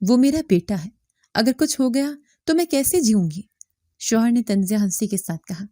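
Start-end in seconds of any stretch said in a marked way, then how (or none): 0.1-0.9 trembling voice. Acted. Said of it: "میں نے لرزتے لہجے میں کہا". 1.3-3.4 trembling voice. Acted. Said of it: "میں نے لرزتے لہجے میں کہا".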